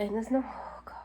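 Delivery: whispered oh God, still rattled; shaken whisper. Real, not acted. Vlogger still rattled after checking downstairs, whispering. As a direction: breathe it out under your voice.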